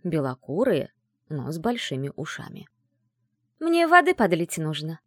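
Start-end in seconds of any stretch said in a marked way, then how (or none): 3.6-5.0 lightly sing-song feminine request; dainty, melodious little voice; melodious female voice. Acted. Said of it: "послышался мелодичный женский голосок".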